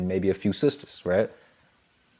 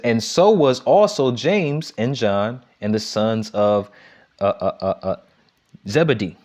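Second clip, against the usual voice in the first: slow, deliberate reading of a Bible verse; scripture reading. Acted. Preacher reads the verse to the congregation, slow and deliberate. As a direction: lift the verse out slowly for the congregation.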